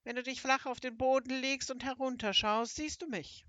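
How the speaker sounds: high-pitched toad instructing from below; croaking toad creature. Acted. Toad speaks from the water.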